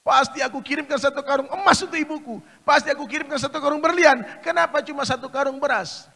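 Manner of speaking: a hint of crying in a loud, high lament; regretful wail. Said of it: "menangis menyesal sejadi-jadinya".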